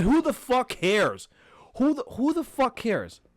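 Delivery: real fed-up outburst, drawn out at first; exasperated. Real, not acted. Podcaster fed up with hip hop media, exasperated. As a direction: dismiss it with angry disgust.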